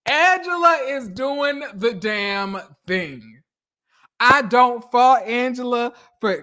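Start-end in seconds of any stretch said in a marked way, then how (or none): 0.1-3.4 slowed right down, every word weighted; savoring each word of the praise; slow emphatic repeat. Shown as a demonstration. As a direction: drag out Angela is doing the damn thing for emphasis.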